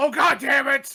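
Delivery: very loud, very high, drawn-out booming shout. Playing a character who spots a drow: shouting in character. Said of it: "he shouts that across the whole bar".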